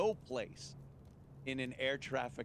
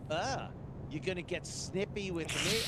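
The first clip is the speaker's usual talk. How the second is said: mock snippy; 4 semitones higher than usual. Mocking a snippy controller.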